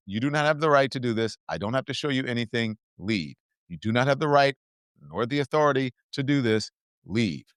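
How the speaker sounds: mildly firm, measured refusal; peaceful firmness. Shown as a demonstration. Bystander telling agents to leave, peacefully firm. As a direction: stand your ground calmly, without shouting. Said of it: "stand your ground peacefully and say".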